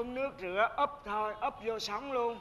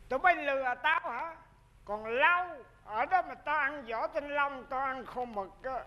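raised-pitch scornful scolding; mock indignation; 3 semitones higher than usual. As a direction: gloat while telling off two tricksters. Grandfather confronts the two tricksters.

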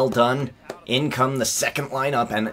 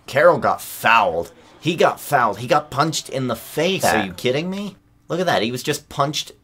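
higher, indignant protest; outraged disbelief; 4 semitones higher, 3 dB louder than usual. Real, not acted. Outraged at a foul.

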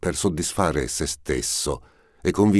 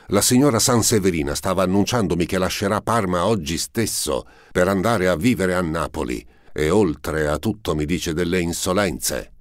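angry complaint; 4 semitones higher than usual. Acted. Prince angrily tells Mosca the duchess insults him. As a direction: rattle off the grievance in a fury.

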